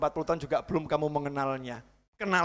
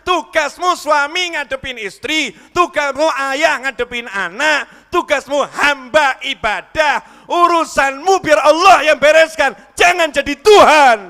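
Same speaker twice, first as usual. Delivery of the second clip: slow, loud, higher rising exhortation; fiery preaching; 8 semitones higher, 12 dB louder, slower than usual. Acted. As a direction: build to a thundering climax. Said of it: "saya tampak teriak-teriak". (khotbah berapi-api, makin keras)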